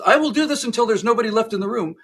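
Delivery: high, menacing, angry threat; angry Stalin. Acted. Angry Stalin threatening everyone left in the room, angry demand. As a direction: threaten the whole room like a dictator. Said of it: "Comrade Stalin is clearly angry".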